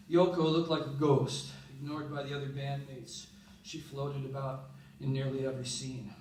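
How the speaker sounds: measured spoken-word poem delivery; recited poem with pauses between phrases; poem reading. Acted. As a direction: read it as a poem, line by line. Reads a poem aloud.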